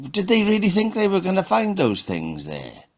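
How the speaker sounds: can't believe anyone thought that; incredulous. Real, not acted. Mocking a migrant family's hopes, pitched high in disbelief. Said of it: "it blows my mind".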